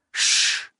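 gentle unvoiced hush; soft shush. A narrator's reading. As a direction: hush her softly. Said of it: "he said softly".

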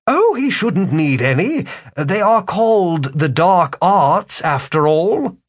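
high, mocking wizard; a smug con man, amused. Wizard speaks.

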